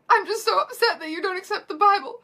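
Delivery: high, loud mock sobs; hammed-up tearful wail; feminine sobbing. A narrator's reading. Hermione upset at the unbeliever, feminine mock sobbing. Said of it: "Hermione sobbed femininely".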